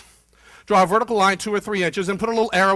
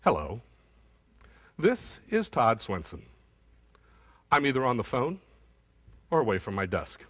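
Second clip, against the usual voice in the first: low, slow, monotone phone greeting; slow droning voicemail; 9 semitones lower, 6 dB quieter than usual. Retold or imitated. Mimicking a client's voicemail greeting, slow and low. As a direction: drag it out like a sleepy voicemail. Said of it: "his voicemail went kinda like this".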